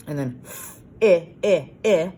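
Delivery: "I, I" repeated loudly as a short vowel sound. Shown as a demonstration. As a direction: stretch the vowel sound "I" for the class. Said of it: "chopping it up".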